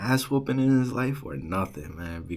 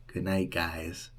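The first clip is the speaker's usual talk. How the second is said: smug taunt; 2 semitones lower, slower than usual. Retold or imitated. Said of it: "mad, like, demoralizing".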